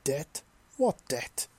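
puzzled, rising question; confused surprise. A narrator's reading. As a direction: ask it baffled and caught off guard. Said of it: "with a confused and surprised expression".

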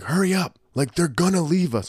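high-pitched, pressing imitation; mock urgent plea; retold urging. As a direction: urge a dawdling friend along, pitched well up. Acts out urging late friend on.

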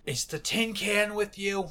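put-on slurred, muffled drunk voice from behind a door. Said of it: "A muffled and slightly slurred voice".

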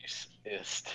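distant, faint voice off mic; far from mic. Real, not acted. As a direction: speak from across the room. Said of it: "it sounds like you're far away".

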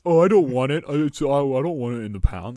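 loud, acted-out refusal; retold protest. Quoting someone refusing the car, loud protest. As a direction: object loudly, playing the other side.

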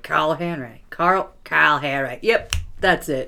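put-on slow, half-hearted Boston accent rehearsal; mock someone practising at the mirror; lightly done Boston accent; Boston accent practice. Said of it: "Oh, I've gotta try to put on a Boston accent".

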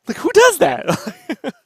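"who does that" stretched out slowly, high and loud; slow incredulous repeat. Real, not acted. Repeating the question to his co-host, slow and incredulous. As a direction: drag out "does" in disbelief.

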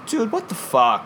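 high, slow disbelieving "dude"; mock outrage, drawn out; retold outrage. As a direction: stretch it out as if just spoiled. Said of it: "I'm like".

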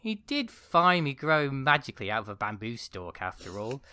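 put-on high, bright young girl voice; chirpy princess voice. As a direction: keep the princess voice going. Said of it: "this is the synopsis of the movie".

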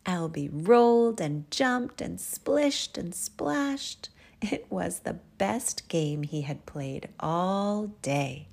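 animated storytelling with stretched key words; children's story narration. Acted. Narrator telling children about the mud bath, animated storytelling. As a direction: read to little ones, savouring each word. Reads bedtime story aloud.

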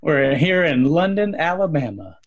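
hammed-up Alabama accent; mock Southern accent. Mock slipping Southern accent joke.

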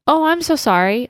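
high-pitched, timid retold apology; scared apology. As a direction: imitate apologizing to someone intimidating. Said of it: "scared 'cause he looks really angry".

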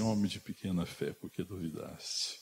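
low, soft and slowing; gentle reproach. Acted. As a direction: chide softly, fading at the end. Voices Jesus gently chiding Peter. (repreensão branda, em voz baixa)

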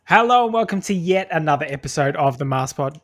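upbeat host intro voice; podcast intro. Acted. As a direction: open the show like a host. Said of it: "the most unenthusiastic intro ever".

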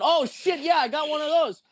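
high mock surprised voice; surprised reply. Drunk retold reply.

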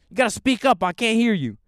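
high, loud mock old man; imitating an old man who can't hear; old customer voice. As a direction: bark it like a deaf old regular. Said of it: "he talks like a Republican".

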